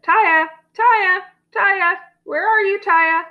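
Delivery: high, carrying father's shout; calling out. A narrator's reading. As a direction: call for a lost child. Father calling for lost daughter.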